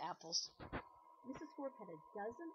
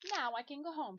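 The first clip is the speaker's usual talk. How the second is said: gleeful; 6 semitones higher, 5 dB louder than usual. Acted. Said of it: "Missus Scorf was very happy".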